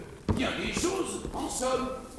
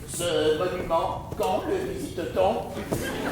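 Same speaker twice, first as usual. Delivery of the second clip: naive; 3 dB quieter than usual. Acted. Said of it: "Naïf".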